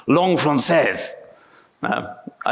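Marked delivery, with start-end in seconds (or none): 0.1-1.1 slow, self-conscious attempt at a French accent; bad French accent. Shown as a demonstration. English speaker checking the French words, in a bad French accent. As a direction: try the French phrase in a clumsy French accent. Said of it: "I've got a terrible French accent".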